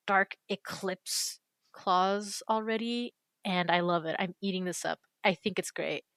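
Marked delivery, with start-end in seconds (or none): 0.1-3.1 mock edgy. Edgy OC claws, dramatic.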